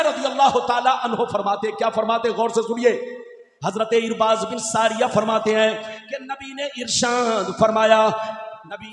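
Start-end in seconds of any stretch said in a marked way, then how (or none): 3.6-8.9 rhythmic, chant-like sermon with stretched key words; declamatory preaching. Real, not acted. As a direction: proclaim sacred words to a congregation. Preaches the hadith translation rhythmically. (लयदार, जोशीली तक़रीर)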